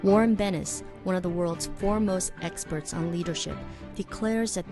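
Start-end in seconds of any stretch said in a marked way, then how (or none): none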